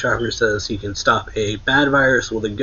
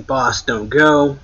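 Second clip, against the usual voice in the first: drawn-out mock yell; slow, mildly raised imitation of a cry out; retold yell; 3 semitones higher, 5 dB louder, slower than usual. Crew calls to their boss, half-hearted retold yell. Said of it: "they're, like, yelling".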